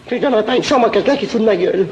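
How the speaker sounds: put-on offended innkeeper girl.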